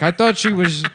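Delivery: high, loud sheepish excuse; noir detective. Acted. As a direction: blurt out a lame excuse. Detective answers the boss.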